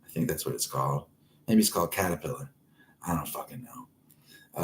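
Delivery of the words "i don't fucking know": breathy whisper, barely voiced; whispered aside. Real, not acted. Shrugging it off to the audience in a whisper. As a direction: throw it away under your breath.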